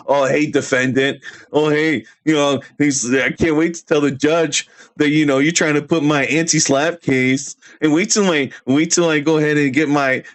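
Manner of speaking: mildly mocking a courtroom blowhard; mock lawyer rant. Streamer mocking Eli walking around yelling about cases, mild mock rant. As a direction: lightly imitate someone prattling on excitedly about cases. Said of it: "yelling about cases and all this stuff".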